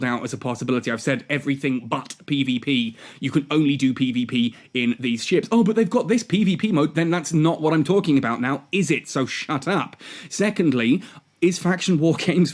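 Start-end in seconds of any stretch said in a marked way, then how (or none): 5.5-7.0 high whiny mocking tone. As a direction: sneer it in a higher voice. Mocking other creators' argument.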